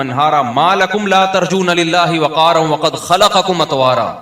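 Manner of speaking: flowing, unbroken Arabic recital; Quran recitation. Real, not acted. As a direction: recite fluently from memory, carrying one verse into the next. Long fluent Quran recitation.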